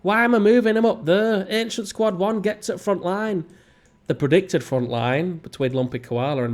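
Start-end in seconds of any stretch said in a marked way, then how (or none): 0.0-3.5 puzzled at himself. Real, not acted. Surprised at own move.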